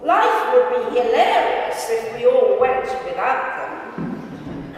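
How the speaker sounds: laughing. Real, not acted. Laughs at own funny line.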